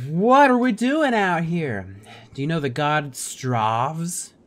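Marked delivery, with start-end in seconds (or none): 0.1-2.0 high, loud, slow questioning; character voice. Pretend. Player voicing Rook asking the companion, hammed-up. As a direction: ask it as the hero, drawn out.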